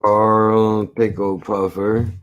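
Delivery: drawn-out slow delivery; slow announcing. Shown as a demonstration. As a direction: say the name very slowly. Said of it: "Okay, so I'll do".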